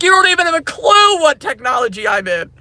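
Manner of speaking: loud, high scornful shout; imagined retort. Pretend. Scoffing at clueless managers, loud and scornful. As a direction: throw it in their faces. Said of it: "I'm like".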